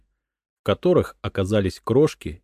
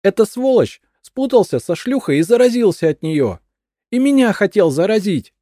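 high, loud frantic accusation; shrieking crazed widow; paranoid madwoman; 14 semitones higher, 8 dB louder than usual. A narrator's reading. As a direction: cry it out in paranoid fear.

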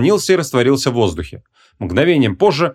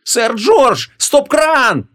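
very high, piercing cry; yelling; 13 semitones higher, much slower than usual. Acted. Young woman ordering the ghost to stop, yelling. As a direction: call out the emergency order at top pitch. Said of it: "завопила Ванесса".

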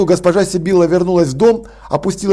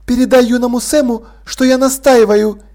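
higher, composed aristocratic lady; a gracious hostess, gently amused; poised lady Sibyl; 4 semitones higher than usual. Acted. Sibyl from doorway.

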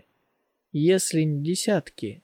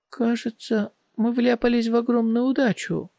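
excited; 7 semitones higher than usual. Acted. Dialan delighted at treasure.

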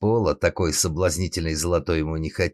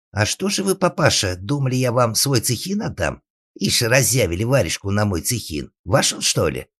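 high, cheeky shout at Father; yelling back; 6 semitones higher, 4 dB louder than usual. Acted. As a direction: jeer loudly from a safe distance. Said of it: "заорал своему отцу".

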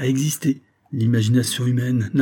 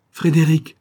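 appel plus haut et plus fort; cri; 5 semitones higher, 6 dB louder than usual. A narrator's reading. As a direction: appelle son frère avec effroi. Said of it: "cria-t-elle". (Paula crie le nom de son frère)

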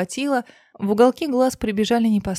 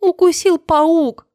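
much higher, louder, slow trembling cry; shocked girl crying out at a friend returned from death; shaken, shocked; 9 semitones higher, 7 dB louder, slower than usual. Acted. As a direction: cry out in disbelief, shaking. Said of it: "Дину буквально колотило".

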